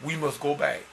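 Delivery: emphatic sermon appeal; earnest preacher's rallying delivery; preaching exhortation. Real, not acted. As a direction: urge the congregation on, leaning on key words. Exhorts the congregation.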